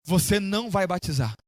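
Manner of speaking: understated, frowning mother's refusal; stern refusal. Retold or imitated. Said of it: "Ela fechou a cara".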